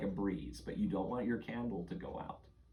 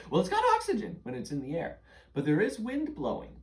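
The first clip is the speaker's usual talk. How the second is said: laughing; 7 semitones higher, 5 dB louder than usual. Real, not acted. Laughs while explaining.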